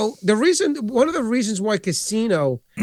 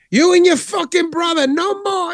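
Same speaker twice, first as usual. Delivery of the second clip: high, nasal-free movie gangster voice pitched way up; Pesci impression; 12 semitones higher than usual. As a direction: spit it out like Joe Pesci threatening. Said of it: "he's like".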